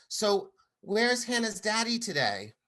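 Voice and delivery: lightly voiced six-year-old asking; innocent child. Daughter asks the mother a blunt question, light child voice.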